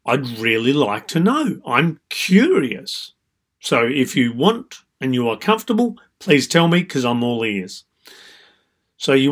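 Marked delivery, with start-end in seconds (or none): 0.0-7.8 gently curious, inviting them to share; curious, respectful energy. Shown as a demonstration. Coach showing clients a curious tone. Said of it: "you also want to have that energy of".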